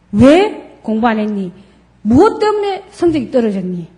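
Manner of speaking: pressing, blaming tone; a scolding parent's demand; accusing question. Shown as a demonstration. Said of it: "비난의 느낌, 압박을 주는 느낌".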